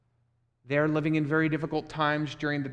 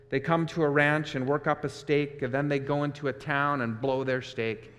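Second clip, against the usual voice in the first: deeper rhythmic George. Acted. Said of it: "George's voice became deeper".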